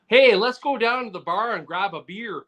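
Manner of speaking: Aussie buddy's hammed-up take on a Canadian; imitated Canadian impression. Podcaster quotes his Australian buddy's impression of Canadians, mock Canadian accent. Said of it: "his impression of Canadians is".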